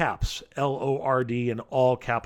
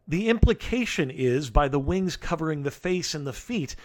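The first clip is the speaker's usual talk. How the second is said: ordinary talk, nothing marked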